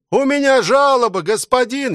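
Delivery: high, calling soldier voice from the crowd. A narrator's reading. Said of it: "Из толпы начали кричать". (выкрик солдата из толпы, высоко)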